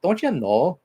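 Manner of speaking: light Minnesota lilt on a cartoon mom's line; imitating a Midwest mom, lightly; Midwest mom accent. Streamer mimicking a cartoon mom, mild Midwest accent. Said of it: "his mom talked like the Midwest".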